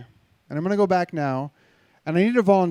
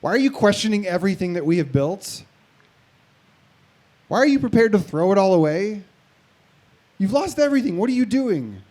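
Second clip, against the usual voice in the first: nagging inner voice; 3 semitones higher, 3 dB louder than usual. Retold or imitated. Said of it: "this old you comes online and says".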